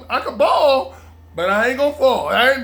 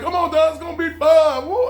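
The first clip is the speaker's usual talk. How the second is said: urging friend; 7 semitones higher, 4 dB louder than usual. Retold or imitated.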